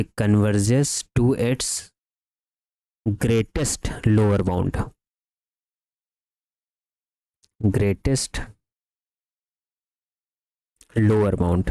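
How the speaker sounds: measured, slow delivery for note-takers; slow dictation. Real, not acted. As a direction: dictate word by word, with long pauses. Dictating the result to write.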